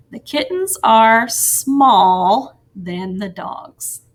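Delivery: slow, careful read of a sentence that sounds off; deliberately wrong sentence. Shown as a demonstration. Teacher reads the wrong sentence to the class, slowly. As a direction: read slowly, leaving small bare as if checking it. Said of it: "It doesn't sound right right now".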